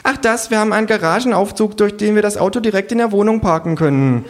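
very high, loud party-host voice; gushing hostess. A narrator's reading. Hostess showing guests her penthouse, gushing high. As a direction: show off the home in a high voice.

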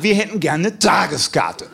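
slow, emphatic macho insistence; puffed-up testosterone demand; macho, challenged. Retold or imitated. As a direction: repeat it slowly, chest out, rising to a challenge. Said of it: "testosterontechnisch etwas herausgefordert".

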